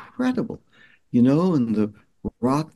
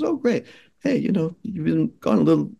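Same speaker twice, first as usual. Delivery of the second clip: mom's reply, much higher; imitating mom; 5 semitones higher than usual. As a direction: answer brightly like a relieved mom. Mom answering son.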